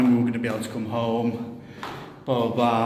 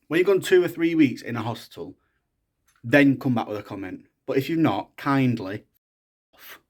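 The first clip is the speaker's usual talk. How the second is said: angry rant. Real, not acted. Venting on camera at people who keep asking, angry. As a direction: snap it at the people asking questions. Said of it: "That was angry, Jake".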